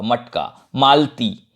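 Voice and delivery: मटका as matka, मालती as malti; मटका and मालती with no inner a; no schwa inside. Shown as a demonstration. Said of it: "ट में अ का उच्चारण नहीं होगा".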